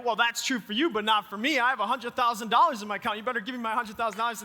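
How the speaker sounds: pretend-stubborn customer at the bank teller; lightly hammed-up demand; mock insistence. Pastor pretending to argue with bank teller, mock stubborn. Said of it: "I'm like".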